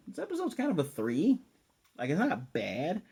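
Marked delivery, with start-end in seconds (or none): 0.1-1.4 dismissive verdict. Retold or imitated. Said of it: "initially I was like".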